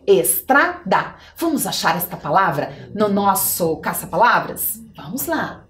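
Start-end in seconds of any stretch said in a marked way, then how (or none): 0.1-1.2 drawn out syllable by syllable, slow; slow, clear word for kids; slow spelling read. Shown as a demonstration. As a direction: read it out slowly for the children to find.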